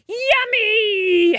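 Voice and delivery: high, loud happy giant roar; delighted roar. A narrator's reading. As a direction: bellow with pure delight. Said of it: "he roared".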